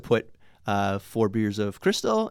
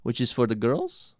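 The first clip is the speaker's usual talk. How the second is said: put-on Russian accent; 4 dB louder than usual. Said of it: "I'm doing a Russian accent for Cubans".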